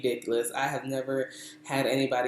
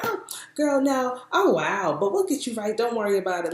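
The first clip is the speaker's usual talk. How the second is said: high, breezy imitation of a sure hairdresser; confident reassurance; 8 semitones higher than usual. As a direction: wave the worry away in a higher voice. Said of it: "she was confident in it".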